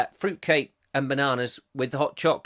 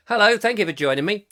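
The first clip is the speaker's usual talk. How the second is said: Kevin voice; 4 semitones higher, 4 dB louder, faster than usual. Retold or imitated. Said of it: "And that's Kevin".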